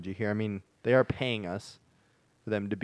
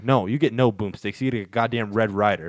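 mock anger; 5 dB louder than usual. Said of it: "I'm angry now".

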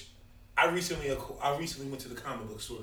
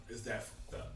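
whisper; 10 dB quieter than usual. Acted. Echoes question in a whisper.

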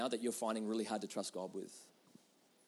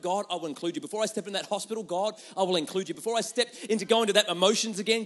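building prayer; 5 semitones higher, 5 dB louder than usual. Shown as a demonstration. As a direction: swell the litany to a climax. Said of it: "building repeated prayer".

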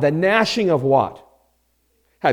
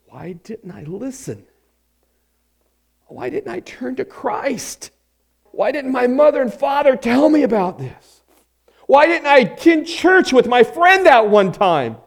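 mock lament; 6 semitones higher than usual. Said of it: "eternally weeping".

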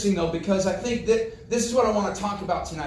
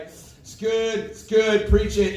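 mock Pentecostal shivers; 3 semitones higher, 4 dB louder, much slower than usual. Listener thrilled by a list of names, mock Pentecostal fervor. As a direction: cheer the preacher on in mock rapture. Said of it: "like, the Pentecostal shivers going".

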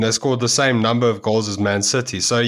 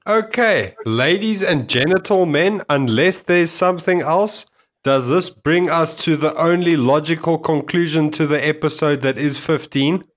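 announcer voice; 3 semitones higher than usual. Pretend. Hosts wrap up the episode.

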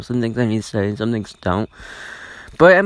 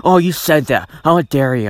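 mildly hammed-up offence, raised pitch; mock indignation; 3 semitones higher, 4 dB louder than usual. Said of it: "that's not really much of angry".

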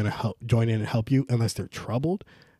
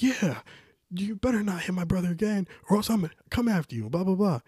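higher-pitched mock threat; retold tough talk; 9 semitones higher than usual. Older brother warning off a kid, mock tough talk. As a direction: talk big, mimicking a protective brother.

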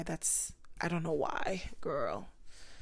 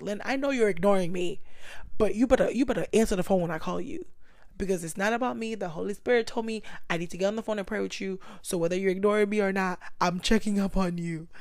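louder scolding friend; insistent friend; 5 dB louder, faster than usual. Retold or imitated. Friend demanding she answer, louder scolding. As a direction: nag her to pick up the phone. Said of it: "there are people that are like".

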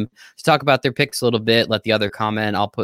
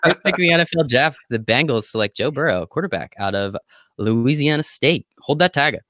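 NFL commissioner announcing; 3 semitones higher than usual. Pretend. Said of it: "He's a commissioner now".

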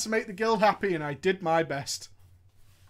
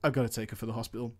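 quiet hurried mutter; 11 semitones lower, 9 dB quieter, much faster than usual. Retold or imitated. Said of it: "he said".

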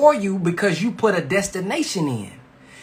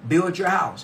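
over enunciating; slower than usual. Shown as a demonstration. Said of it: "the scripture says".

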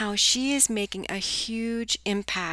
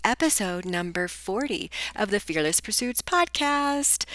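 sing-songy voice. Real, not acted. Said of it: "I guess I've got my sing-songy voice on".

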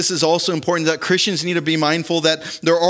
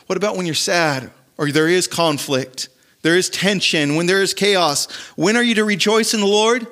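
building emphatic quote; 4 semitones higher than usual. Real, not acted. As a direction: build it like a preacher's climax. Quoting Paul, building to climax.

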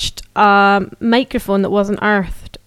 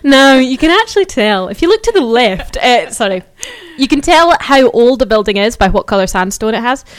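tour guide voice; 2 semitones higher, 3 dB louder than usual. Shown as a demonstration. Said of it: "I've gone into my tour guide voice".

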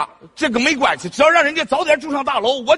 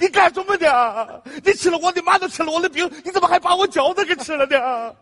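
mock angry scolding; 7 semitones higher than usual. Scolds brother who ate his food.

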